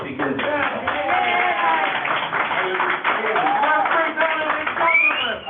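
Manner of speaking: shaking voice. Real, not acted. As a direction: voice cracking high with anger. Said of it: "you probably hear my voice shaking 'cause I'm so angry".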